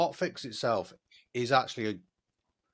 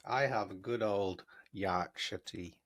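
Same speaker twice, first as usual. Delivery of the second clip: slow put-on Yorkshire accent. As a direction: drawl it in a weak Yorkshire accent. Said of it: "It's not the best Yorkshire accent".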